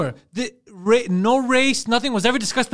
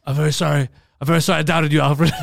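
lower, sheepish mock apology; meek Batman apology; 4 semitones lower, 4 dB louder than usual. Storyteller voicing Batman apologizing to Alfred, lower and sheepish. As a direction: mumble it like a scolded emo kid. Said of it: "He's like".

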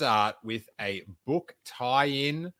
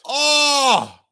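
much higher, louder shocked exclamation; 13 semitones higher, 8 dB louder than usual. Real, not acted. Hearing the crabs twist, loud shocked oh. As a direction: gasp it out in disbelief.

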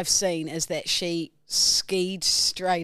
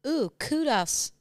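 mock flirty kudos; 7 semitones higher, slower than usual. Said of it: "Strava kudos".

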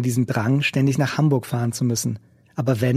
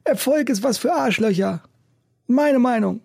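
raised, rough busker voice; gruff old street musician; 10 semitones higher than usual. A narrator's reading. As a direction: play the cynical old busker. Macke's voice in story.

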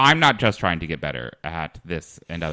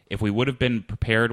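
hyper own voice; 4 semitones higher than usual. Pretend. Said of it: "a hyper version of my voice".

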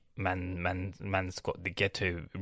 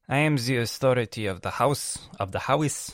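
louder, mock-pompous dad announcing "I am the authority of the house"; faked dad voice; 6 dB louder than usual. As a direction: ham up the father's proclamation. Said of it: "let's be fake for a while".

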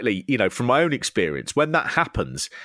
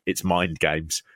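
low mock mind games; 7 semitones lower, 3 dB quieter, slower than usual. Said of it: "You just say".

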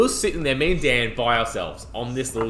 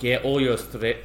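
attempted Irish accent. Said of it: "I'm trying to do the accent now".

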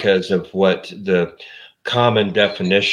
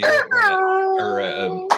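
falsetto skit voice. Acted. Mock cooking show skit.

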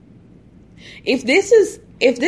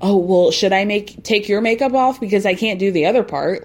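condescending. Retold or imitated. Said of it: "very condescendingly is like".

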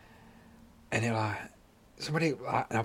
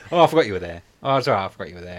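loud mocking imitation; 2 semitones lower, 6 dB louder, faster than usual. Mocking the stranger's excuse, loud.

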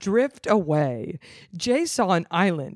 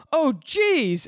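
deadpan oh jeez; 8 semitones higher than usual. Acted. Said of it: "That's what you say when a boat crushes your wife".

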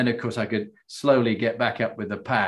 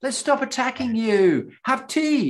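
mock polite enemy; 11 semitones higher than usual. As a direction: ham up a politely considerate enemy offering tea. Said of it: "the enemy don't go".

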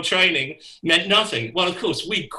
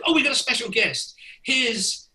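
organizer's announcement; 7 semitones higher than usual. Retold or imitated. Organizer announces special guest.

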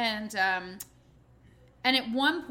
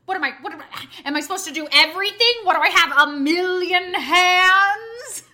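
put-on loud sing-song indignant diva kid, last line slowed; a four-year-old outraged at the chore; loud dramatic child diva voice; sassy kid; 5 semitones higher, 12 dB louder than usual. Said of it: "the four-year-old stands back and goes".

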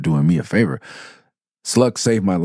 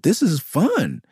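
higher, slow, savoring it; relishing fun; 12 semitones higher, slower than usual. Real, not acted. Rapper explaining his love of fighting, slow relish. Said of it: "me just wanting to fight you is mild".

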